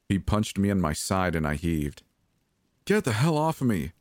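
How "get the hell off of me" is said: high, furious, frightened outburst; spat out. A narrator's reading. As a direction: spit the words at an attacker. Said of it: "I spat at him".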